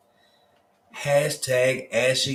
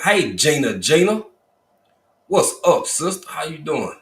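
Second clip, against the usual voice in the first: much higher and louder call; excited greeting; 6 semitones higher, 6 dB louder than usual. Real, not acted. Host spotting a viewer in chat, excited and high. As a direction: cheer the viewer's name out.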